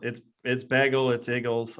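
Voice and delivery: bagel and Eagles in Philly twang; Philly accent. Shown as a demonstration. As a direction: pull out the old Philly pronunciation. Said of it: "I could still pull it out".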